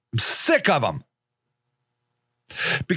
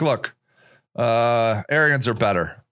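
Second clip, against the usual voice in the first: lightly voiced KKK guy, a lot lower; imitating KKK guy; 10 semitones lower than usual. Quoting the KKK guy, a low mock voice. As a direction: drop the voice a lot lower for a matter-of-fact racist. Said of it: "He's like".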